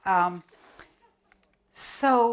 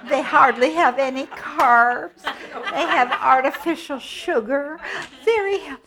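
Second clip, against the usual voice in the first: put-on higher, giggly child voice; little girl puppet voice; 7 semitones higher, 9 dB louder than usual. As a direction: chatter about treats like a girl. Little Red chatters about goodies.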